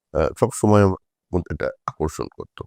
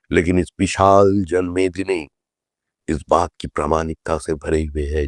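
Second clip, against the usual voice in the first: Atalji's rally oratory; 2 semitones lower than usual. Retold or imitated. Leader addressing a Brigade rally with empty patches, lightly imitated oratory. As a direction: quote a rally speech in a statesman's cadence. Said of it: "সেদিন অটলজি ভাষণ দিয়েছিলেন".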